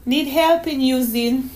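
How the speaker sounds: put-on high child's voice; child proudly listing her clues; cheeky little girl. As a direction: thank Mommy like a small girl. Voices young Donna May in story.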